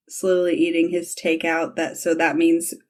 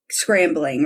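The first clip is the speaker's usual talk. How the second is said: drawn-out word. Real, not acted. Describing him scrambling, word drawn out.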